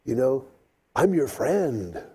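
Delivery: soothing a lizard. Retold or imitated. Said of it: "And so I thought".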